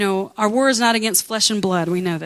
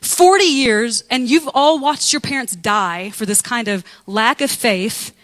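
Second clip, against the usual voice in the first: mock angry Moses; 3 dB louder than usual. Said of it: "He's like".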